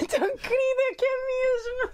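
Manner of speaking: high, slow laughing gush. Real, not acted. Laughing at her friend's shyness.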